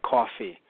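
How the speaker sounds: "coffee" with a New York aw vowel; New York pronunciation. Shown as a demonstration. Showing words that stick out, "coffee" said New York style. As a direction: say "coffee" as "caw-fee", like a New Yorker. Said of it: "certain words that will stick out".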